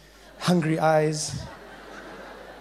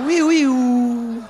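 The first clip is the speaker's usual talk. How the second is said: gleeful laugh; 4 semitones higher, 7 dB louder, much slower than usual. Acted. Laughing, delighted.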